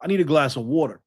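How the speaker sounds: lightly imitated New Jersey accent on water; understated New Jersey water. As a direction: repeat water with a mild New Jersey flavor. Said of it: "you know, like that".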